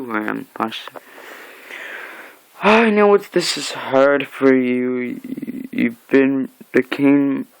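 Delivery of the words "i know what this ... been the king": slow menacing villain. Retold or imitated. Villain speech.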